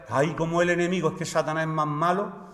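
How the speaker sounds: lightly mocked pious alarm; overzealous believer. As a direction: mildly mimic an overexcited churchgoer's lament. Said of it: "los más exaltados espirituales".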